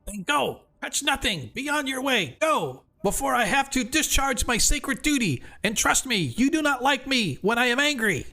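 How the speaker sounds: very high, squeaky stern warning; a tiny creature trying to sound fearsome; high squeaky crayfish ordering the party out. Acted.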